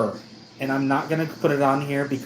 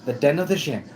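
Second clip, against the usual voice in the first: upbeat channel intro in Spanish; bright welcome like a YouTuber, in Spanish; showing off Spanish; 2 semitones higher than usual. Shown as a demonstration. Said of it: "Yeah, I know Spanish".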